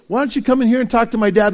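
fast, bright call to dad; eager son. Retold or imitated. Son calls Dad to come talk, eager and fast.

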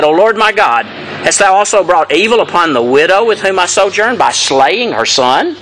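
a lifted, restrained prayerful cry. Retold or imitated. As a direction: read it as Elijah's earnest cry to God. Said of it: "And he cried".

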